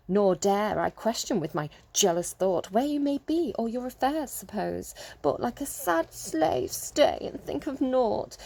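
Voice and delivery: mocking, exaggerated ham reading, laughing; sarcastic reading. Shown as a demonstration. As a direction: sneer through the sonnet. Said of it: "You can read it sarcastically".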